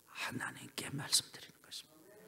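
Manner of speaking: soft unvoiced whisper of 하나님께 말씀드리는 것입니다; hushed 하나님께 말씀드리는 것입니다. Shown as a demonstration. Whispered repeat.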